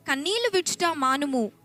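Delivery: usual speaking voice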